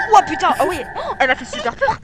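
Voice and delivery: scared laugh. Real, not acted. Jump scare from recording.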